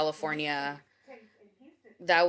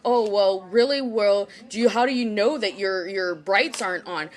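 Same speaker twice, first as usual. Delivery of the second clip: officer questioning; 6 dB louder than usual. Retold or imitated. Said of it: "so he's like".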